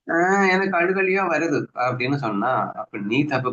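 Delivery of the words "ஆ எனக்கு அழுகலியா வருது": higher and slow, a hammed-up whine that tears are coming; mock whimpering. Disciple whining to the teacher that he feels like crying, in a mock whimper. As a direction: drag it out like a sulking child.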